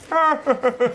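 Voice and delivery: high mock cackle of mates; imitated background laughter. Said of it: "all you gotta hear is".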